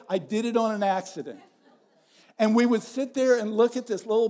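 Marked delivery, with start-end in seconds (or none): 0.1-1.4 laughing quote. Retold or imitated. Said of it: "He would always say".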